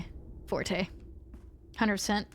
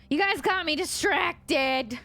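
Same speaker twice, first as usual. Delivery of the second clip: raised, higher-pitched playful protest; mock complaint; 8 semitones higher, 4 dB louder than usual. Real, not acted. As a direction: scold the chat playfully, pitched up.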